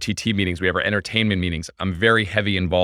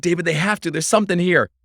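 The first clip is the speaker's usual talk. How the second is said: excited push; 9 semitones higher than usual. Retold or imitated. Excited retelling to director.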